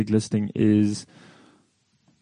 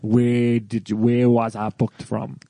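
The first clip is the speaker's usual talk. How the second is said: slow, deliberate question; slower than usual. Retold or imitated. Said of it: "I always say to a corporate".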